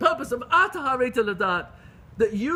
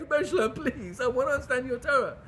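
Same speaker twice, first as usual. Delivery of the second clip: higher-pitched earnest plea; plead, voice raised in pitch; begging; 5 semitones higher than usual. Retold or imitated. Retelling a rabbi's plea to understand Torah, begging.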